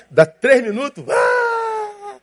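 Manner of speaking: high wailing cry; hammed-up crying baby; mock baby wail. Pastor imitating a baby waking and wailing.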